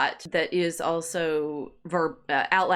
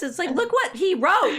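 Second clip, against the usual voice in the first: laughing marvel; 11 semitones higher, 4 dB louder than usual. Real, not acted.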